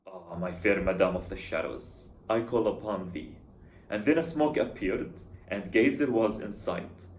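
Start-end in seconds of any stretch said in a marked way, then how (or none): 0.1-3.3 lightly voiced ancient summoner, a little lower. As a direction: intone an incantation with a hint of an ancient voice. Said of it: "with my ancient voice".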